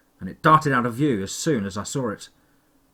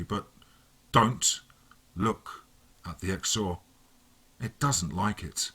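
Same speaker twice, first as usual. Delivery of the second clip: lightly voiced villain, mocking and calm; a hint of a smug, menacing villain; taunting villain. A narrator's reading.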